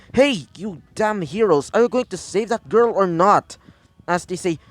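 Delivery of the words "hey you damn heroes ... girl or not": mild scream-out. Acted. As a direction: call out indignantly with restrained volume. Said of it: "As Izuku screams out".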